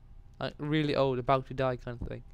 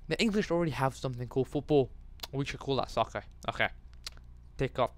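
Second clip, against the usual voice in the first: mock meeting voice. Acts out Americans renaming sports.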